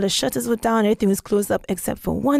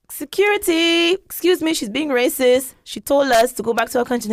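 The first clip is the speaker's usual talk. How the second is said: calling for security; 5 semitones higher than usual. Retold or imitated. Calling security in retold scene.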